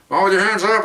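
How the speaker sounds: retold police order. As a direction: call it out like a patrol officer.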